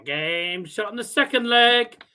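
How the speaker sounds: darts score caller. Retold or imitated. Mimicking referee call.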